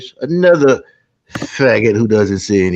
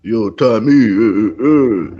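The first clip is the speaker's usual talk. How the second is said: rough attempt at an Italian-American accent; 3 semitones lower, slower than usual. Host trying out how Italians sound, mock Italian-American accent. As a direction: imitate an Italian-American guy grunting after a name. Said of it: "that's how the Italian sound".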